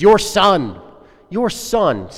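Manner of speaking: disowning the brother with spite; venomous jab. Acted. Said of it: "full of kind of just venom".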